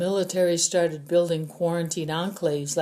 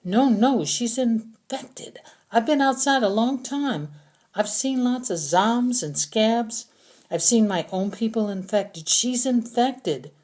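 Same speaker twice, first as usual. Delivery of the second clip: accusing prisoner; 6 semitones higher, 4 dB louder than usual. A narrator's reading. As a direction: drag out the accusation. Prisoner pleads insistently.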